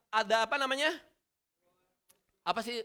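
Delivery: ordinary talk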